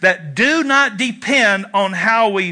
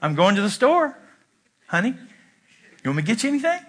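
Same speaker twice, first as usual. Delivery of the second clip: soft and sweet, softer at the end; gentle; 4 dB quieter than usual. Shown as a demonstration. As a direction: say it kindly to your spouse. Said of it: "there's a difference between saying".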